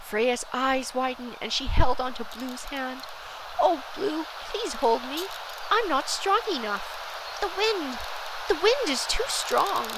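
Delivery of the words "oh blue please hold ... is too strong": high, pleading storybook voice; frightened plea. A narrator's reading. Freya clings to Blue in the wind, frightened plea. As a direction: plead for help against the wind.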